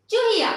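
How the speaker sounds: चूहिया with a short, light u, quickly released; short vowel, light stress. Shown as a demonstration. Teacher showing children the short u in चूहिया, said lightly and briefly. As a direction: say चूहिया without stretching the u. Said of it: "मैंने कम जोर लगाया".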